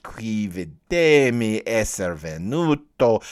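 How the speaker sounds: slow Florentine Italian "qui videmi esser venuto"; Italian quote. Shown as a demonstration. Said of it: "in the Florentine is so beautifully compressed".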